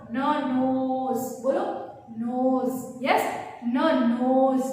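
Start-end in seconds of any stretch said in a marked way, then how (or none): 0.1-1.2 न नोज drawn out very slowly, n hummed through the nose; slow n sound demo. Shown as a demonstration. Teacher showing kids the nasal n, very slow. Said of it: "सब अपने नोज को touch करके बोलो". 3.1-4.6 न नोज slowed, n hummed through the nose; slow n sound demo. Shown as a demonstration. Teacher repeating the n sound for kids, slow. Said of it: "सब अपने नोज को touch करके बोलो".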